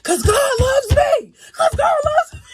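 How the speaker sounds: shouted with full conviction, high and loud. Retold or imitated. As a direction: proclaim it with total conviction. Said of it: "But then by the end".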